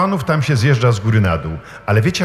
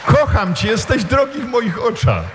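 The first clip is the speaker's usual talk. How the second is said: high-pitched, drawn-out calling of names; preacher voicing God's loving call; God calling tenderly; 10 semitones higher than usual. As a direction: call each beloved child by name, voice lifted. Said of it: "woła do ciebie".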